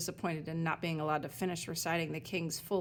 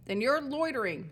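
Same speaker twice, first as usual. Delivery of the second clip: higher, louder scold; a sign scolding a loiterer, louder; stern scolding sign; 6 semitones higher, 5 dB louder than usual. Acted. Sign to Elsbeth, a louder higher scold.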